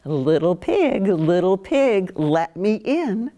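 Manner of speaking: lightly voiced wolf, slow; a hint of the wolf at the door; big bad wolf. Wolf calling at the first piggy's house, lightly voiced. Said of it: "He goes to the third piggy's house".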